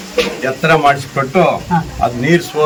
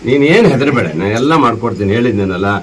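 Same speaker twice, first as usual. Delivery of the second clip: reassuring; 9 semitones lower than usual. Real, not acted. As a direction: tenderly promise help to stop her tears. MLA reassuring crying old woman.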